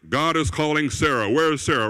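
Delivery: a touch declarative, mildly imitated; mock proclamation. Showy prophet summoning Sarah, mock proclamation. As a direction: announce it like a public summons. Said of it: "It's not, it's not that".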